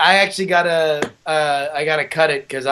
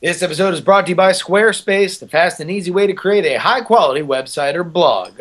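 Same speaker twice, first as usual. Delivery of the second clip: ad read. Shown as a demonstration. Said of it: "okay, one more time".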